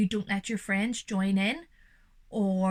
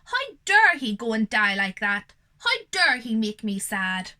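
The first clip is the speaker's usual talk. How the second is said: louder, indignant demand; angry outburst; 6 dB louder than usual. Acted. Grieving father to himself, angry outburst. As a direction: rage at the son for dying. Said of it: "I say to myself".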